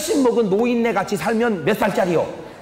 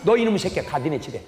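father slamming the floor and banishing his son; father's outburst. Retold or imitated. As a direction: throw the son out of the house. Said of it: "방바닥을 딱 짚고".

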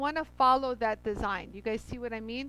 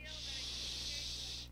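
soft far-off shush to someone nearby; quick quiet hush; 14 dB quieter than usual. Real, not acted. Hushing someone off mic.

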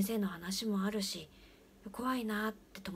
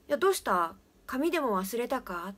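loud, higher call through the stall wall; 3 semitones higher, 7 dB louder than usual. Retold or imitated. Father calls loudly to his friend behind the wall. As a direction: raise your voice to reach the next stall.

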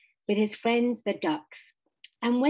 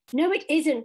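a touch of indignation, raised; indignant; 6 semitones higher, 4 dB louder than usual. A narrator's reading. Rat protesting the Mole's agreement, mildly indignant. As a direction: protest it, stung. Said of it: "cried the Rat indignantly".

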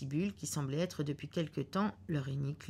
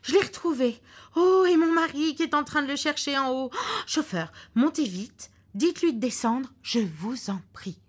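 much higher and louder; wife urging the chauffeur; urgent excitement; 10 semitones higher, 8 dB louder than usual. Acted. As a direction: hurry the driver upstairs.

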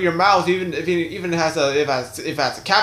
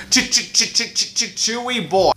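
cowboy character voice; 6 semitones higher than usual. Acted. Cowboy dentist bursts in asking for liquor: goofy cowboy voice. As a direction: play a goofy cowboy stammering his catchphrase. Woody's stammered catchphrase.

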